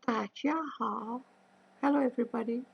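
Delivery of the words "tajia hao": slow model phrase. Shown as a demonstration. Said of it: "We can say".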